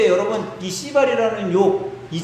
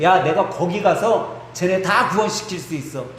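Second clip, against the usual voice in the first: lightly acted boast, climbing higher as it builds; overconfident believer; 3 semitones higher than usual. Devout believer vows to go evangelize the sinners, confidently. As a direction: declare it with building self-assurance. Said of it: "신앙심 좋은 사람들이 약하게 꼭 하는 얘기".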